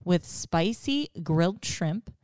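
sensual. Acted. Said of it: "you got very sensual at the end".

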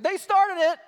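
put-on high, loud kid-style protest; childish retort. Preacher mocking himself answering his wife. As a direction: throw it back like a sulky child. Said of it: "I'm like".

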